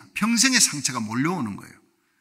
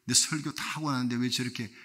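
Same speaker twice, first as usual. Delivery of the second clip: inner grumbling; 4 semitones lower, 5 dB quieter than usual. Retold or imitated. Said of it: "했더니".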